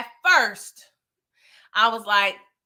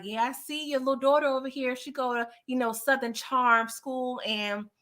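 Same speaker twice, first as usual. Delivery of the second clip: menacing threat; 4 dB quieter than usual. Retold or imitated. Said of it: "she's starting to threaten his daughter".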